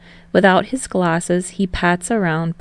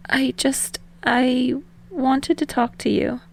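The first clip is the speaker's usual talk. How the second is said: soft secret; 6 semitones higher, 4 dB quieter, slower than usual. A narrator's reading. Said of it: "Hinata said softly, like a secret".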